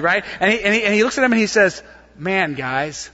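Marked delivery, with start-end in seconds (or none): 2.2-3.1 dry mock praise, a touch of sarcasm; lightly sarcastic, as if unimpressed. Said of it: "Real sarcastically".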